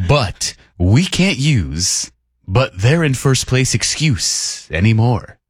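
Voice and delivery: slow, drawn-out mock radio read; late-night text reading. Host reading a listener's complaint, slow late-night radio voice. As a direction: stretch the words like a late-night DJ. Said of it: "every subsequent text in that late night radio voice".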